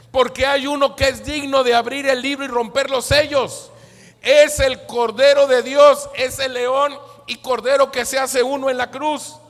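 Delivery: loud, high-pitched preaching; triumphant proclamation. Acted. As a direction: proclaim it like a victorious announcement. Elder proclaims the Lamb, preached.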